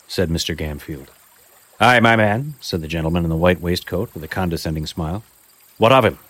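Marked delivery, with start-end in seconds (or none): 1.8-2.5 a lightly raised, haughty gentleman; condescending gentleman. Acted. 5.8-6.2 a lightly raised, haughty gentleman; condescending gentleman. Acted. Gentleman questions Gamfield.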